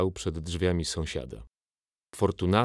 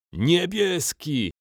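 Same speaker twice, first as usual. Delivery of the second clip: much higher, louder, stretched race cheer; shouting; 10 semitones higher, 5 dB louder, much slower than usual. A narrator's reading. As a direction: yell for your team. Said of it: "krzyknął Pupiusz".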